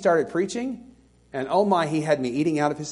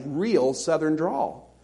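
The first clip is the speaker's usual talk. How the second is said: Southern drawl; 4 dB quieter, much slower than usual. Shown as a demonstration. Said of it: "I recognized that I had a".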